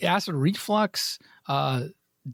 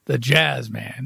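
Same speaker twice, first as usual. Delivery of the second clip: jazz man Pacino; 5 semitones lower, slower than usual. Retold or imitated. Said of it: "Everybody does the".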